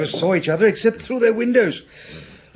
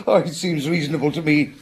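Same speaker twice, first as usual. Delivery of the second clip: amused laugh. Acted. Doctor brushing off the inspector's remark, amused laugh. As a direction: laugh it off lightly.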